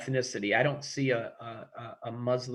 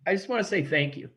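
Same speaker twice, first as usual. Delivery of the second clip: getting emotional; 6 semitones higher than usual. Real, not acted. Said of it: "I'm getting emotional".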